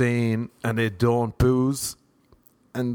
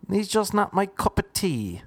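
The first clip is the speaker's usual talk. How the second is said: mock begrudger, pitched way up; stubborn begrudger; 9 semitones higher than usual. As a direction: wave it away in a high voice. Begrudger answering his questioner.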